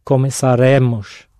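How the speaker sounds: Começaremos stressed on re. Shown as a demonstration. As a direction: lean on the re in Começaremos. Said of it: "got the stress in exactly the right place".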